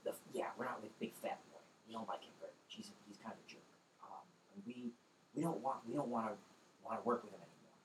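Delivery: hushed, half whispered goblin voice; hushed goblin matriarch bargaining through the door. Acted. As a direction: speak softly, wary and secretive.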